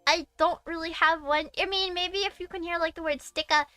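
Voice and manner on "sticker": "sticka" with no R sound at the end; Boston-style R-less "sticka"; dropped final R. Shown as a demonstration. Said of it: "I don't put an R at the end".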